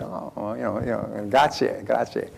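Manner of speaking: modest Italian waiter, lightly voiced; Italian accent. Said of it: "he had an Italian accent".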